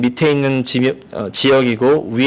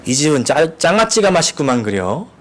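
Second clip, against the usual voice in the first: a lightly voiced Chungcheong grandmother; Chungcheong grandma. Preacher quoting a grandmother at the restaurant, lightly voiced. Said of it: "할머니가 충청도 분이신데".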